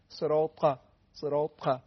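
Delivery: "صراط" with a thick ط released firmly; tongue pressed to the palate on the ط of "صراط"; heavy ta. Shown as a demonstration. Teacher showing the ta, heavy "صراط". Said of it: "صفت انطباق داره".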